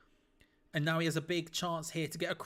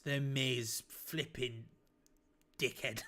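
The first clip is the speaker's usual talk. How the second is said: laughing insult; 4 semitones lower, slower than usual. Real, not acted. Laughing at The Miz.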